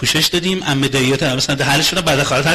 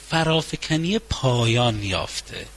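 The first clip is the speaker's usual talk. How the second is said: slow declaration; 5 semitones lower, 6 dB quieter, much slower than usual. Shown as a demonstration. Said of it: "slow solemn declaration".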